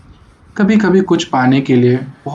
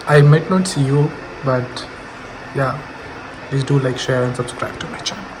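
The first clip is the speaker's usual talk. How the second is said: distant, echoing bathroom voice; speaking from inside a bathroom; 4 dB quieter, much slower than usual. Real, not acted. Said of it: "bathroom से bye बोल रहा हूँ".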